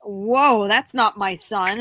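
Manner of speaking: loud, startled whoa. Retold or imitated. Recalling waking to a strange little man, startled.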